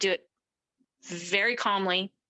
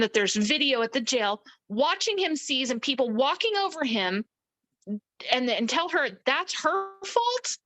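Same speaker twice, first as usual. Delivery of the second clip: indignant scolding; 3 semitones higher than usual. Retold or imitated. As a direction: reenact confronting him in outrage, stressing each accusation. Retold confrontation with the unwanted houseguest.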